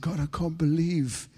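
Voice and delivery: hushed disbelief lifting to a high, moved cry; retold tearful prayer. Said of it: "I just sat there weeping".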